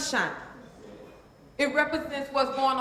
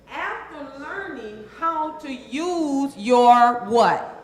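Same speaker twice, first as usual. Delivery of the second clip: prompting audience; 9 dB louder, slower than usual. Acted.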